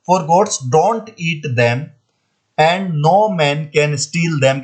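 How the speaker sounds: very slow, word by word, like dictation; deliberate classroom read-aloud; slow textbook reading. Shown as a demonstration. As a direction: read it out slowly for the class to copy. Teacher reads textbook sentence aloud.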